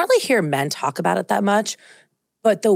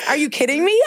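surprised; 9 semitones higher than usual. Real, not acted. Reacting to the candle wicks story.

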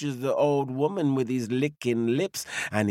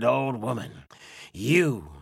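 slow, lightly lowered bear voice; hungry bear; 4 semitones lower, slower than usual. Acted. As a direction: rumble the threat slowly.

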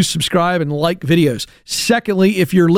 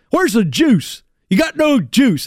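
lightly voiced coach ripping the team, higher-pitched; Benny Polk; 4 semitones higher than usual. Coach to flat team in the locker room, mock ripping. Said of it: "That's how he said it".

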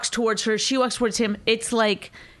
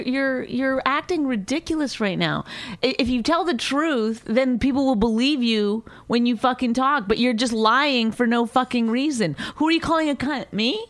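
higher, heated scolding; exasperated; 4 semitones higher than usual. Real, not acted. Wife tells husband he's lying for no reason, exasperated. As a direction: scold him in real frustration.

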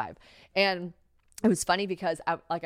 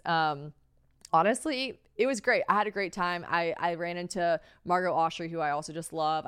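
usual speaking voice

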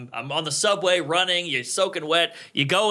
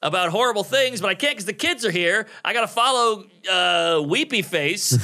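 flustered panic; 3 semitones higher than usual. Retold or imitated. Comic's panicked thoughts.

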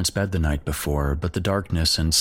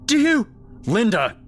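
frantic, far higher, louder yells; hysterical yelling; 3 dB louder than usual. Acted. Mom yelling at the window in hysterical panic. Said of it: "his mom started yelling again".

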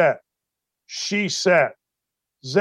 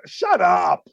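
shut up shout. Real, not acted. Host yells back at complainer.

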